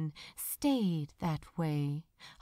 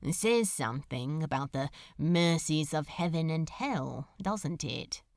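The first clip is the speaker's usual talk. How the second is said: a lightly voiced sardonic demon; wry demon; 4 semitones lower than usual. Demon musing to the angel about Hell, lightly voiced sardonic. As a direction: toss it off, dry and lightly lowered.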